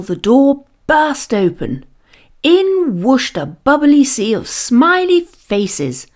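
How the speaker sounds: plain reading voice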